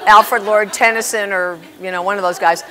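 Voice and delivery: loud, laughing through the words. Real, not acted. Laughing loudly while telling the audience about her childhood poem. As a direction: laugh at your own silly poem as you talk.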